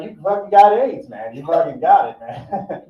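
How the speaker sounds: loud, incredulous yell; imitating a friend yelling in disbelief; mock yell. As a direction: shout it in disbelief. Friend's stunned reaction.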